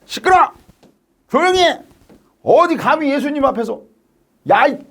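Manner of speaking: high, sharp telling-off; hushing a noisy beggar angrily; scolding. Acted. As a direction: scold like an indignant disciple. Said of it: "제자들이 막 혼내는 거야".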